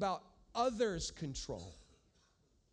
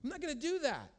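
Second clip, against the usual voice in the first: firm refusal; 4 semitones higher, slower than usual. Retold or imitated. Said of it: "an inability to just say".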